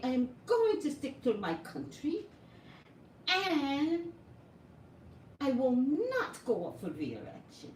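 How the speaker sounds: mock Puerto Rican accent, high and emphatic; Ricardo Rosario's accent. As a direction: put on a defiant Puerto Rican governor's accent, punching each refusal. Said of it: "I hope my accent was authentic".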